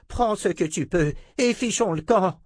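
put-on old sorcerer voice. Zed urges escape.

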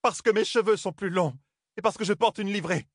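high-pitched indignant retort; indignant outcry. Acted. Aiel maiden, indignant, lashing back at the first lady. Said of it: "s'écria Souline".

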